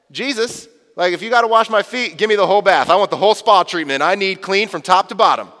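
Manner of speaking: Peter overdoing it, asking for the whole bath; overeager Peter. Pretend. Peter begging Jesus for the whole spa treatment, overeager. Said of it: "Peter starts to sort of understand it".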